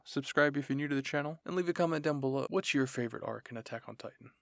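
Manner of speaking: cheery channel outro delivery; upbeat video outro. Real, not acted. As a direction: address the viewers with energy.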